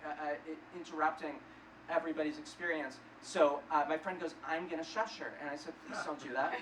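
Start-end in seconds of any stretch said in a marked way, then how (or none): 5.9-6.5 low, soft mock pleading; small, hushed voice for a nervous request; timid plea. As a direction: plead under your breath. Timid plea to stop friend.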